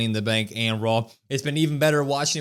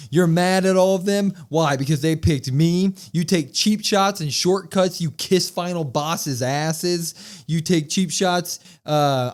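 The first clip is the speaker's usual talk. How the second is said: mock Punk promo; 2 semitones higher, slower than usual. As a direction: spell it out like a face cutting a promo. Punk's promo acted out.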